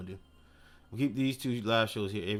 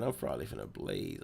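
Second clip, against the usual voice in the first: tags 1; 11 semitones lower, 8 dB quieter than usual. Acted. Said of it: "She said".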